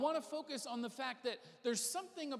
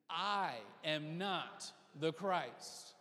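very slow, deliberate declaration; leading a recitation; 4 semitones lower, much slower than usual. Shown as a demonstration. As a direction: space out every word for others to join. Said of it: "Say it with me".

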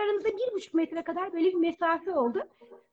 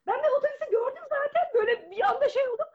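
gülerek anlatma; 8 semitones higher, faster than usual. Real, not acted. Komik anı anlatırken gülüyor.

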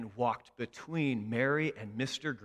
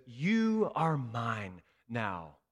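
slow, steady and sure; tender claim; much slower than usual. Acted. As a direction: speak it like a promise. Jesus says to you.

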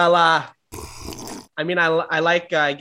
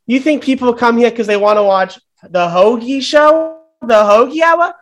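hammed-up firing rant; 5 semitones higher than usual. Greg fires Hoagie in a rage.

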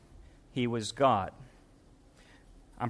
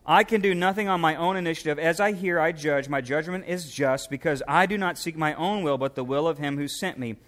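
reading scripture aloud, a touch raised. Acted. Preacher reading verses to congregation, a touch raised.

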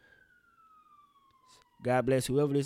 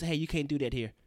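softer, mild mock cop being nice; a cop letting the white kid off gently; gentle cop voice; 4 dB quieter than usual. Mocking the gentle cop who scolds Lil Timmy. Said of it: "All they would have said was".

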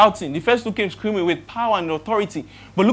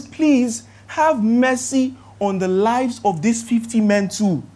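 slow, mildly acted plea; begging; 4 semitones higher, 4 dB louder, slower than usual. Captain pleading for his fifty men, slow imitated begging. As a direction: draw out the appeal for mercy. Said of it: "he begged".

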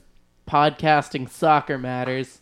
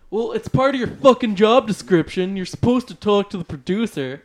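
retold lecture; 4 semitones higher than usual. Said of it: "he was like".

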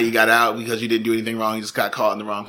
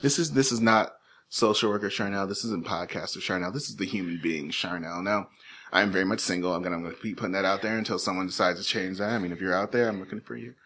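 lower, softer, confiding aside; mock personal appeal; 4 semitones lower, 8 dB quieter than usual. Host talking to listeners as a single woman, hushed mock confession. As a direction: drop into an intimate mock dating pitch.

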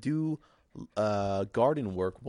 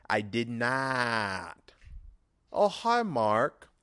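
Tommy Wiseau; 3 semitones higher, much slower than usual. Acted. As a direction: drop the denial, then brightly greet Mark. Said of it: "my Tommy Wiseau impersonation".

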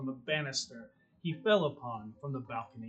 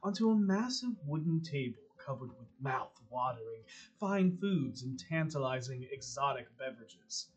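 dramatic scene narration; 2 semitones lower than usual. A narrator's reading. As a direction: paint the gothic dining hall for the players. GM scene setting.

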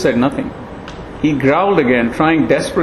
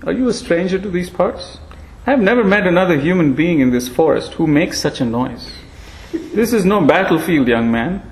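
thin ancient voice, gently chiding; frail old monkey; 2 semitones higher than usual. Acted.

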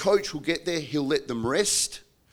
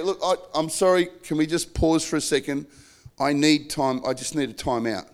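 reassuring apology to an upset spouse; calm request for a pause. Shown as a demonstration. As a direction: gently ask your spouse for a pause.

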